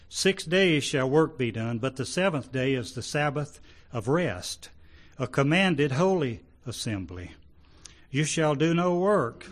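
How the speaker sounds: emphatic Bible-reading voice; scripture reading. Acted. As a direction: read out the commandment with firm emphasis. Reads scripture aloud to congregation.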